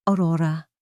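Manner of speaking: low and tender. A narrator's reading. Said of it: "Ang boses ay mababa at malambing".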